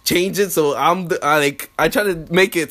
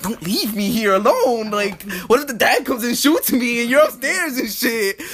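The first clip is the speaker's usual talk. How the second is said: higher, worried protest; mock-panicky, pitched-up plea; retold anxious plea; 5 semitones higher than usual. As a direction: act out pleading not to be left. Retold plea not to leave.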